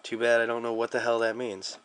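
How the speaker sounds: ordinary delivery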